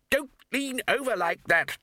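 high, worried call; alarmed warning. A narrator's reading. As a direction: warn a passenger, panic starting. First warning, panic rising.

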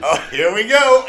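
high, loud, laughing thrill; laughing, excited fan squeal. Retold or imitated. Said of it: "I was like".

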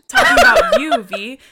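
high, loud laugh-through words. Real, not acted. Telling cohost dad's mix-up, loud laughing squeal.

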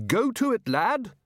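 rally the dwarf like an officer; hearty command. Acted. Ridcully orders the dwarf.

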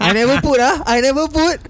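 exasperated regret. Acted. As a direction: lament the missed pick. Regret over missed captain pick.

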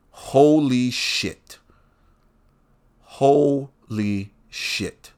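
very slow, drawn-out swearing; stunned disbelief. Real, not acted. Host reacting to a hypocritical statement, stunned. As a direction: stretch each syllable in stunned disbelief.

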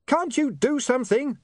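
high, desperate yell; screamed. A narrator's reading. William pleads with Otto amid barking, high scream. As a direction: scream a plea over the din. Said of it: "he screamed".

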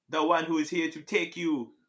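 put-on Jamaican-accented Grim Reaper; lightly voiced Jamaican Death. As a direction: imitate an ominous Jamaican Reaper. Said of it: "What accent was that?".

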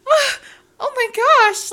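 high, loud, retold flustered delight; flattered gasp. Client reacts to an old man's compliment, mock flattered. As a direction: imitate a client bowled over by a compliment.

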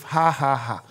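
mild, spaced mock laugh; deliberate forced laugh. Shown as a demonstration. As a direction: demonstrate a laugh that is not felt. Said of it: "He said laughter comes with".

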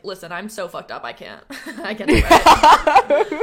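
mock-tortured Harry, breaking into laughter; mock breakdown dissolving into laughs; mock anguish. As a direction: play it as self-pity, then crack up. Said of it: "And he's like".

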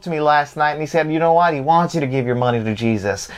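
Southern preacher working the congregation; Southern televangelist. Acted. Televangelist claiming the Lord spoke to him, Southern preacher accent. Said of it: "be like a, a, a televangelist and do that accent".

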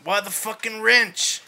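put-on Boston accent. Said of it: "Should we do it all in a Boston accent".

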